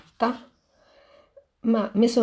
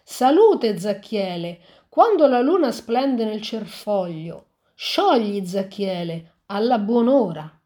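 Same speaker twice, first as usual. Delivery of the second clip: witch's spell. Acted. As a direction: intone it like a light incantation. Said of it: "Sentite le parole della strega". (accenno di strega che recita un incantesimo)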